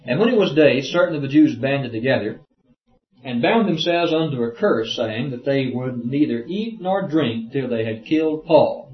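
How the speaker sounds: declaimed verse, lifted at the start; formal reading-aloud voice; scripture reading. Acted. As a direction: read the Bible passage out firmly.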